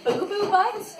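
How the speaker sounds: high laughing question; laughing disbelief. Real, not acted. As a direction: giggle the name in disbelief. Reacting to silly name.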